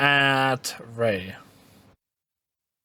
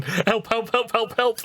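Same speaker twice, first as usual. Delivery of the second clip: mock squeaky toy cry; 5 semitones higher than usual. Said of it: "Like the panic button".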